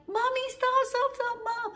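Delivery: high, loud, wailing plea to mother; re-enacted child's panicked cry; retold pained plea. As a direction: beg in mock agony to be let go. Re-enacted plea while hair pulled.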